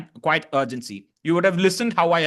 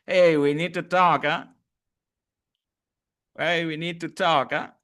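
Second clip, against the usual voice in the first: lightly teasing lilt; mock-serious, poking fun at a friend; playful tease. Shown as a demonstration. Coach showing a playful teasing tone to class. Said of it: "you are teasing playfully someone".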